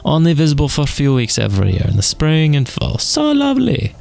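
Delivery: put-on Russian accent; attempted Russian accent. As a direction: explain in stage Russian, then coo. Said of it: "an attempted Russian accent".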